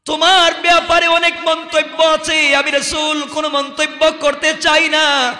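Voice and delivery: high, ringing demand for answers; impassioned preaching. Acted. Prophet questioning the late companion, impassioned preaching. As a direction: question sternly in a carrying sermon voice.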